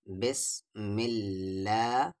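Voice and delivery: slow, drawn-out recitation; Quran recitation. Shown as a demonstration. Teacher recites the word for students, slowly drawn out. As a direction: stretch it like tilawat. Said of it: "اللہ کے لام سے پہلے زیر ہے تو یہ لام".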